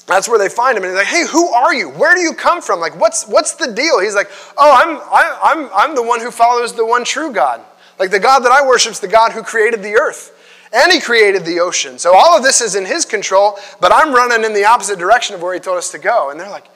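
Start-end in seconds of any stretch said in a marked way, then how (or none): 1.1-4.0 much higher, louder alarmed demand; startled sailor. Retold or imitated. Sailors confront Jonah. 4.6-16.3 earnest Jonah. Retold or imitated. Jonah answers sailors.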